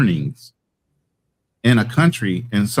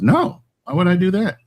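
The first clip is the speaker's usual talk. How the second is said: higher mock-indignant reply in her voice; high, incredulous quote of his partner; imitating his lady; 8 semitones higher than usual. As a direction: toss it off high, like it's obvious. Quoting his lady's indignant answer.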